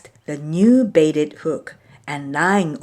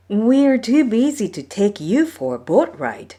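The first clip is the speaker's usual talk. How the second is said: scoffing; 6 semitones higher than usual. Acted. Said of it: "Maui's oldest brother scoffed".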